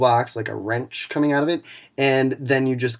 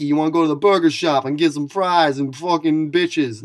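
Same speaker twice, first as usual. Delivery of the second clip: mocking Kanicki's voice; 3 semitones higher, 5 dB louder than usual. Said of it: "what was with the voice?".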